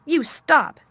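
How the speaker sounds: high, loud furious shout; girl shouting at screaming boy; almost shouting. A narrator's reading. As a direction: yell it to cut him off. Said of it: "she almost shouted".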